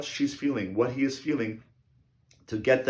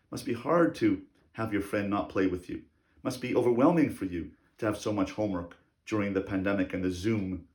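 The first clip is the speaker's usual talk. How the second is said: softer, gentle empathy with a thoughtful hmm; soft understanding parent; 3 semitones lower, 6 dB quieter than usual. Shown as a demonstration. Parent soothing an overwhelmed child over homework, soft and tender. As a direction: validate the child's struggle tenderly. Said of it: "The second dimension of emotional support is then say".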